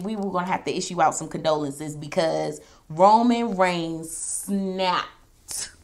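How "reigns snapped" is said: hushed dramatic whisper on Reigns snapped. Real, not acted. Recapping the match to viewers, a hushed whisper. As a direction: breathe it out like a secret.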